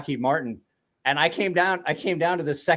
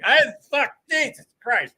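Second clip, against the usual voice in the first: higher, louder stunned swearing; retold shock; 9 semitones higher, 4 dB louder than usual. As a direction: blurt it out, thrown off. Retelling shock at the hair flip.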